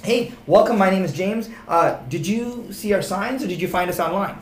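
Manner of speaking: an agent demoing his sorting question to visitors; welcoming script. Shown as a demonstration. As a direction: greet the visitor brightly. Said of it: "the easiest discovery question I always say is".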